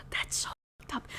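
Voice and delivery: hushed, voiceless disbelief; appalled whisper. Real, not acted. Reader reacting to wedding beside a body, appalled whisper. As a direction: whisper it, truly scandalised.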